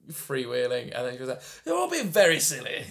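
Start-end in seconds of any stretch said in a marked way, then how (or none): 1.6-2.8 higher-pitched mild British scolding; lightly put-on proper English reproof; mock prim Brit. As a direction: tut at them like a silly-sounding Brit. Mock British debater scolding candidates.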